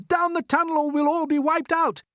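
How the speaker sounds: high, loud alarm; urgent cry. A narrator's reading. James warning everyone to take cover, urgent cry. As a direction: hurry them all below. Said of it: "cried James".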